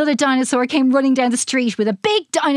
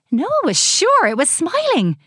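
usual speaking voice

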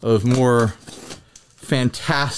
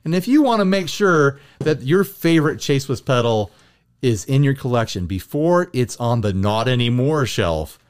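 radio ad voice. Acted. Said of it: "How is my radio advertisement voice".

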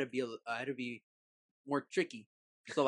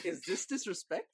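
mock strict parent; 3 semitones higher, 5 dB quieter than usual. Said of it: "My parent".

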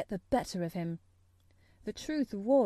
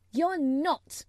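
higher, louder, curt denial; unsympathetic contradiction; 6 semitones higher, 5 dB louder than usual. A narrator's reading. Mary dismissing Colin's self-pity, unsympathetic. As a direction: contradict without any pity. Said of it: "contradicted Mary unsympathetically".

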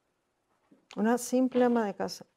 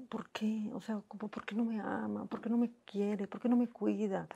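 retold crying lament; 10 dB quieter than usual. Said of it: "Y yo lloraba y decía".

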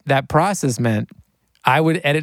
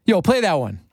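high, pitched-up rapper voice calling out; rapper impression; 10 semitones higher than usual. Rapper asking engineer Josh to play a song, high hyped voice. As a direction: jump way up in pitch like a hyped artist. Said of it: "He's like".

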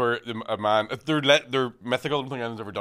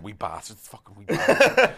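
mum swearing; 4 semitones lower, slower than usual. Retold or imitated. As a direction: mimic mum cursing the wee lads. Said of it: "so she's going".

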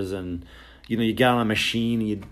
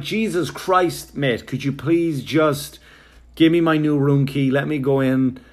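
exasperated plea; 3 semitones higher, 4 dB louder than usual. Retold or imitated. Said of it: "I'm like".

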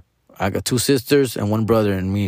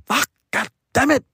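stung comeback; 14 semitones higher than usual. Retold or imitated. Stung by brother's jab.

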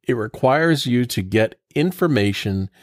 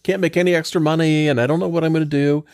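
whiny client; 4 semitones higher, faster than usual. Retold or imitated. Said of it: "they come to us and they say".

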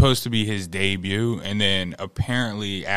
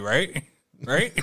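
mock asking look; 4 semitones higher, 3 dB quieter than usual. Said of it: "you looked at me like".

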